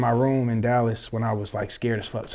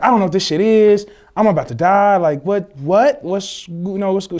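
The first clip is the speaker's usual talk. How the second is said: higher, mildly panicked and bewildered; retold panic; 4 semitones higher, 3 dB louder than usual. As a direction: act out a scared phone call. Retells own scared call to cousin.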